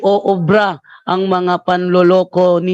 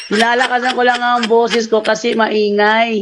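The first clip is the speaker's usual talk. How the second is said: laughing through a mock quote; amused mock repeat of the excuse; laughing mockery. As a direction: chuckle while mimicking his excuse. Mocking opponent's excuse, laughing.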